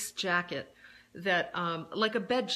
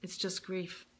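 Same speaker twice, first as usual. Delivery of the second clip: gentle self-talk. Retold or imitated. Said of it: "I'll just say to myself".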